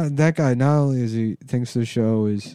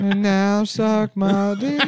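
high mock voice; 9 semitones higher, 4 dB louder, slower than usual. High voice with laugh.

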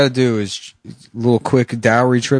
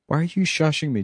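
usual speaking voice

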